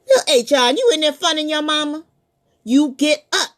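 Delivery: mama calling. Acted. Mama calls.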